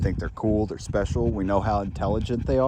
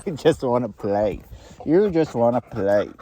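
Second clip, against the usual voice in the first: pet talk; 4 semitones higher, 6 dB louder than usual. Real, not acted. Talking to playful dog.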